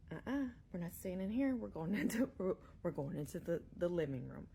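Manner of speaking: firm no, then stumbling over words; nervous refusal. Retold or imitated. Babysitter refusing to stay near the closet, loud and flustered. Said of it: "and I said".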